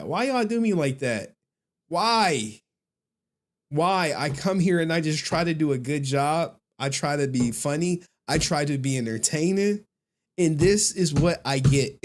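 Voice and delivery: playful woe-is-me protest; mock hurt complaint. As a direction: plead as the wronged entertainer, playfully. Mock complaint at being trolled.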